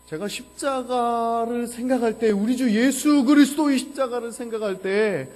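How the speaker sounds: high, loud, stretched-out sermon climax; impassioned preaching. Real, not acted. Preacher lamenting Christ's suffering on the cross, impassioned full-force preaching. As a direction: cry out to the congregation, drawing out the words.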